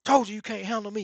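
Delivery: a lightly voiced trash-talking fighter; Ken talking back. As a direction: throw the taunt back at him. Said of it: "Ken talking back".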